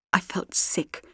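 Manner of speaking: dropped to a whisper; hushed dread. A narrator's reading. Sarah Jane realising the danger, whispered. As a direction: let the sickness steal the voice.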